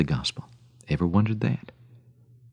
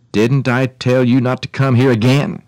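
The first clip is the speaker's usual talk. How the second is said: stern gardener, raised pitch; demanding; 4 semitones higher, 7 dB louder than usual. A narrator's reading. Gardener confronting the woman who came back, demanding. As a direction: demand it indignantly. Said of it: "he demanded".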